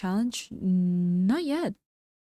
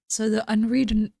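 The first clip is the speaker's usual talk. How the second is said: hoarse, strained voice; losing voice; 2 semitones higher, 5 dB louder than usual. Real, not acted. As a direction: voice giving out. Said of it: "I'm losing my voice".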